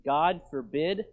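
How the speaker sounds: slow, emphatic quotation. Retold or imitated. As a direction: lean firmly on the words. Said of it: "Paul says emphatically".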